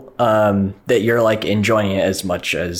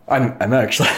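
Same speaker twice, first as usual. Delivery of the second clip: choking up; faster than usual. Real, not acted. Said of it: "you're choking up".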